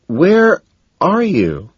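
slow, high, loud friendly question; good-natured. A narrator's reading. Narrator answers angry Evelyn, good-natured. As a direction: ask lightly, stretching the words. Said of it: "I ask good-naturedly".

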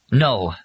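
a firm, emphatic "No". A narrator's reading. Molly refusing the warhead plan, "No" said emphatically. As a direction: put firm weight on "No". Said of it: "Molly said emphatically".

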